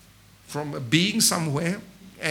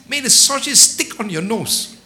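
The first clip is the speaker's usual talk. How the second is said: louder, higher furious retort; angry husband; 4 semitones higher, 8 dB louder than usual. Acted. Husband curses his wife after her scolding, furious. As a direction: snap back a curse in anger.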